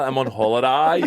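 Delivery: relaxed smile on the last word; smiling. Shown as a demonstration. Comedian showing why holiday sounds better, smiling. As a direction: let HOLIDAY end in an easy smile. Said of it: "it ends in a smile".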